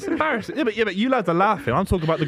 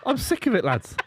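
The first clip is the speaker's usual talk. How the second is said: laughing mock outrage; 9 semitones higher than usual. Real, not acted.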